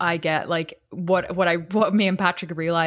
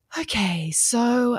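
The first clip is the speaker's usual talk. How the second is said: put-on soothing, gentle therapist voice, pitched up; 5 semitones higher than usual. Recalling trying to hold things together, slipping into a soft therapist voice. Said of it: "getting into my therapist voice".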